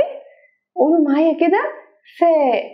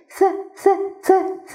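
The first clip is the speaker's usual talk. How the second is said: mock frightened stutter on the letter; scared stammer; 4 semitones higher, much slower than usual. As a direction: stutter the sound like a scared child. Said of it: "وقال لها إيه؟".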